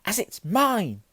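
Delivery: high, loud indignant cry; furious. A narrator's reading. Boy claims his letter from uncle, furiously. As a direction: hit it hard and high. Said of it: "said Harry furiously".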